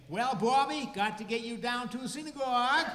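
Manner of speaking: put-on high, loud old Maine Jewish grandfather accent, slowing at the end; playful nostalgic imitation of a Maine Jewish grandfather accent; grandfather's Maine Jewish accent. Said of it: "that's a Jewish accent".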